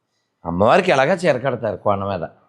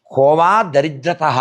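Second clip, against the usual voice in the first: slow, measured recitation of the verse; quoting Sanskrit verse; slower than usual. Retold or imitated. Preacher quoting Chanakya to the audience, slow recitation. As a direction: intone the Chanakya line slowly. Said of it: "చాణక్యుడు చెప్తాడు".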